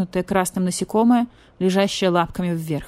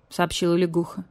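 ordinary delivery, nothing marked

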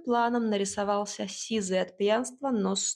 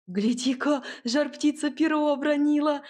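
put-on higher, louder boyish shout; excited cry; 6 semitones higher, 4 dB louder than usual. A narrator's reading. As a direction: shout out, thrilled. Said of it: "вскрикнул мальчик".

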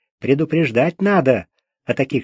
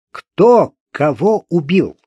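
mild bark, slow; 2 semitones higher, 4 dB louder, slower than usual. Acted. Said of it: "рявкнул".

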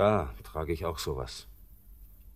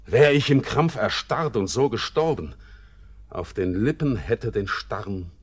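feverish outburst; 3 semitones higher, 5 dB louder than usual. Acted. Feverish climax of longing.

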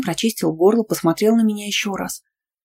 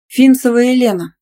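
name rapped out loud and high; loud, clipped; 6 semitones higher, 7 dB louder than usual. A narrator's reading. Student calls her name to the coach, loud and sure. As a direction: state your name firmly and loud. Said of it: "громко отчеканила".

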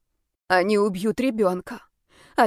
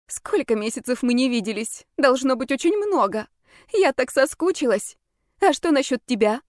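higher-pitched, chatty reunion greeting; feigned cheer; 4 semitones higher than usual. Pretend. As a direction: gush a little for the onlookers. Feigned cheer to lull onlookers.

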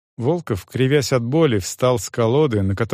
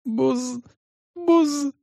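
sobbing stammer; 14 semitones higher than usual. Acted. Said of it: "всхлипывал Стефан".

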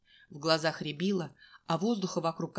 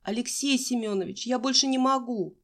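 higher, whiny plea of a tired runner; student begging the coach to let her stop running; pleading; 6 semitones higher, 4 dB louder than usual. A narrator's reading.

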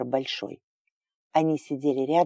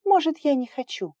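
hurt reply; 12 semitones higher than usual. Acted. Hurt girl answers him.

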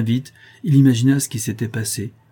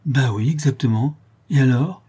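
plus fort, provocante; défie l'autre de la contredire; ton de défi; 4 semitones higher, 5 dB louder than usual. Acted. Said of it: "avec un ton de défi". (Jeanne assume Hyacinthe, avec défi)

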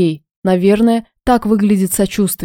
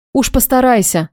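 зло; 4 semitones higher than usual. Acted. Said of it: "донеслось зло в спину".

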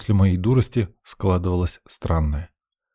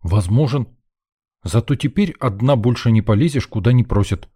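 snapping back angrily; 2 semitones higher than usual. Acted. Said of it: "сердито огрызнулся".

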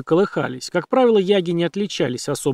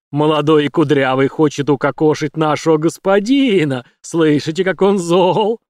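gleeful creature; 4 dB louder than usual. Acted. Яг злорадствует.

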